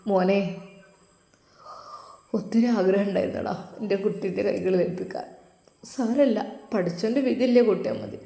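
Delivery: put-on quietly tearful old man. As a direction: speak softly as if holding back tears. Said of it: "ഉസ്താദ് ഒന്ന് തേങ്ങി".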